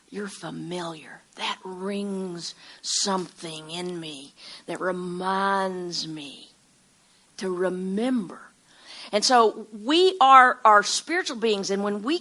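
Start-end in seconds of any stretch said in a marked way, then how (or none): 0.1-8.4 soft, slow and lingering; hushed recognition. Acted. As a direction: let each phrase sink in softly. Voicing a feeling of recognition.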